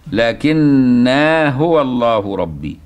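slow recitation keeping the alif in "لكن"; Ibn Amir reading. Shown as a demonstration. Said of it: "ومثل قراءة ابن عامر الشامي".

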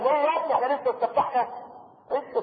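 high-pitched mock disbelief at a pupil; incredulous teacher. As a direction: question the boy in a high, amused voice. Acts teacher questioning panicking pupil.

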